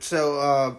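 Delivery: usual speaking voice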